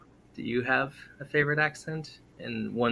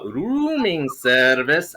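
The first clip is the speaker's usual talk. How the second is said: "Rooming service" slow, with long drawn-out O's; Middle Eastern accent; 6 semitones higher, 5 dB louder, much slower than usual. Shown as a demonstration. Bellhop announcing himself, long O Middle Eastern accent. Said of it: "extend the O's".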